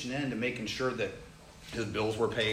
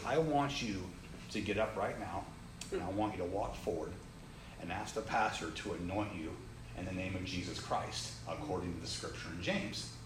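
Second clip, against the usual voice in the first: lower, softening, measured command; hushed authority in short phrases; retold divine instruction; 5 semitones lower, 5 dB quieter than usual. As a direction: voice God's quiet, deliberate instruction. Voicing God's instruction in church.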